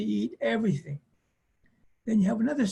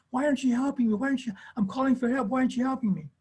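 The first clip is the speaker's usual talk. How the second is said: higher, pleading cry for help; desperate plea; 5 semitones higher, faster than usual. Pretend. Beaten man on the ground pleads with a bystander, higher desperate plea. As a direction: beg the person who just stands there. Beaten victim begs onlooker.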